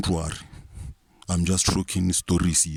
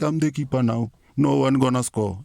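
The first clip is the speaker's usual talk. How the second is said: proud Khune; 5 semitones higher than usual. Retold or imitated. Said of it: "Khune was like".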